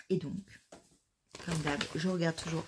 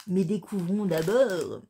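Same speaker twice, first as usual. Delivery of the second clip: voix plus forte, emballée; elle trépigne d'impatience; surexcitée; 3 dB louder than usual. Real, not acted. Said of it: "Je suis surexcitée". (toute excitée à l'ouverture)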